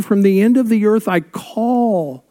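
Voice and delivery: earnest psalm reading fading at the end; scripture reading. Acted. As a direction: plead the verse, then let it fall away. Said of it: "Verse two".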